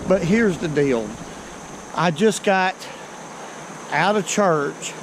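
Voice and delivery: winded after climbing a steep bank; out of breath. Real, not acted. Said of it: "Yeah, I'm a little bit winded".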